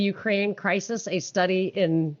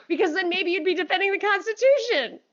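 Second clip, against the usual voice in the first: sarcastic; 8 semitones higher than usual. Real, not acted. Sarcastic jab at critics.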